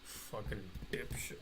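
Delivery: hissed under the breath, voiceless; a frustrated whispered swear; whispered curse. Real, not acted. Muttered insult at connection.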